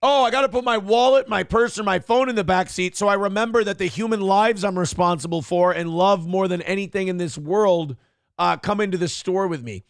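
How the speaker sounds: mocking parent voice; sarcastic mockery. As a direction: sneer it out sarcastically. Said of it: "mocking the advice".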